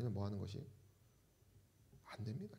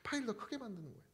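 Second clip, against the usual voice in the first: softer, with the key point held back; hushed repeat; 6 semitones higher, 8 dB quieter, faster than usual. Real, not acted. Preacher repeats the key point to the congregation, hushed. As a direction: repeat the point in a lowered volume.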